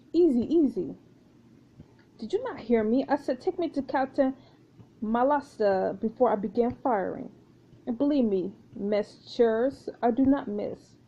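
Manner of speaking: lightly voiced French pirate with a pistol; a measured threat in a light French character voice; mildly menacing French pirate; French pirate woman, threatening.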